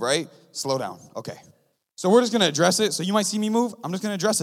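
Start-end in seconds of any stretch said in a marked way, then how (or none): 0.5-1.4 slowed-down demo. Shown as a demonstration. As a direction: show them what slowing down sounds like. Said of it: "this is the move".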